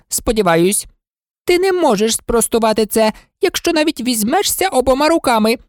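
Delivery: an irritable monarch lecturing; impatient. Acted. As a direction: cut in and scold impatiently. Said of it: "нетерпляче обірвала її".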